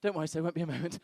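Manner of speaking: soft, offhand doctor voice; reassuring doctor. Acted. Doctor at his computer to the partner, softly reassuring. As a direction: play a doctor quietly murmuring reassurance. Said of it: "and he goes".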